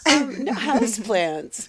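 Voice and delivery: slow southern drawl; southern twang. Real, not acted. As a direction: draw out house plants Southern. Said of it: "Seriously, that's how I sound".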